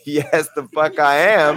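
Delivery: laughing retort. Retold or imitated. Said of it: "I said".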